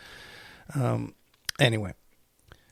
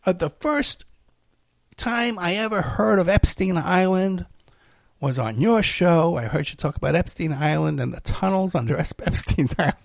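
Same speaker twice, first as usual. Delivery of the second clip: imitating caller; 4 semitones higher than usual. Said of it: "this woman saying".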